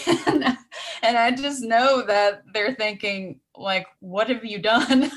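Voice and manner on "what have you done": imitating baffled kids, laughing; mock-accuse with a laugh in the voice; mock reproach. Voicing the girls' thoughts, then laughing.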